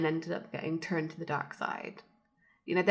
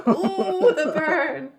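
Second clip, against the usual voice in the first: laughing; 9 semitones higher, 8 dB louder, much slower than usual. Real, not acted. Reacting to the burn joke.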